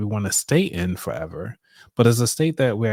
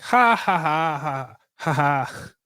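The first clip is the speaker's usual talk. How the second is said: big fake laugh; 5 semitones higher, slower than usual. Shown as a demonstration. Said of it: "do a big one".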